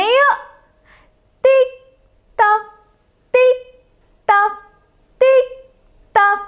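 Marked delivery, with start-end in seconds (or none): 1.4-6.4 even clock-tick rhythm. Shown as a demonstration. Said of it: "Kita tiru suara jam dindingnya".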